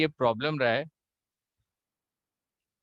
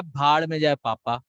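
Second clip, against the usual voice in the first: mock aggressive; 4 dB louder than usual. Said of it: "जो aggressive होगा".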